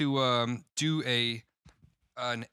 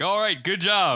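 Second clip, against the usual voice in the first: loud, higher mock Asian accent; hammed-up accent, higher and louder; 7 semitones higher, 9 dB louder, slower than usual. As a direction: imitate the Chinese actors with an exaggerated accent. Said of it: "the guys are all like".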